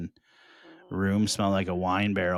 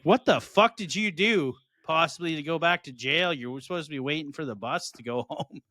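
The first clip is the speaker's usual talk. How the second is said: retold disbelief; 6 semitones higher than usual.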